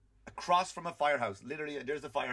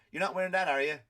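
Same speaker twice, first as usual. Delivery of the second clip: mock wife; 4 semitones higher, 5 dB louder than usual. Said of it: "then I get".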